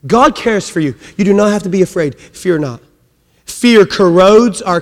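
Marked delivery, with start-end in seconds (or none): none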